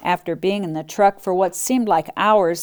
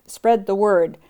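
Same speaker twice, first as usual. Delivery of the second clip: howling; 2 semitones higher, 3 dB louder than usual. Acted. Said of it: "howled a Great Dane".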